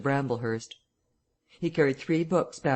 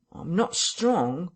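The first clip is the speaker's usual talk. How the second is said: whining tramp voice; 5 semitones higher, much slower than usual. A narrator's reading. Marvel's first plaint.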